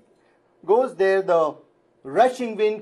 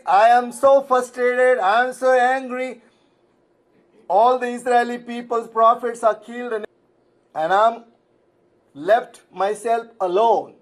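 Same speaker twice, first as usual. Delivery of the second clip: mild complaining; 3 semitones higher than usual. Retold or imitated. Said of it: "And he is complaining".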